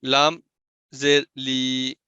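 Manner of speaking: لی drawn out slowly into a long ee; over-stretched madd. Shown as a demonstration. Teacher showing wrong lengthening, slow drawn-out لی. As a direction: stretch the vowel of لی too long. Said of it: "لام کے نیچے میں زیر پڑھ رہا ہوں".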